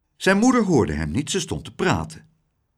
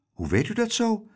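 higher, amazed question; surprised; 8 semitones higher, 3 dB quieter than usual. Acted. Mother asking the lady, surprised. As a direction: ask it in wonder. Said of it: "vroeg moeder Roef verbaasd".

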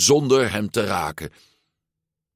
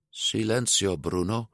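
small, half-hearted command; weakly; 2 semitones higher, 5 dB quieter than usual. A narrator's reading. Luca first trying to silence his inner voice, weakly. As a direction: say it timidly, fading away. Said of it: "zei Luca zwakjes".

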